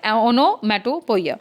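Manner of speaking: "onomatopoeia" stretched out slowly in separate chunks; slow, chunked repetition. Shown as a demonstration. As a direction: say "onomatopoeia" piece by piece for students. Teacher repeats term in chunks.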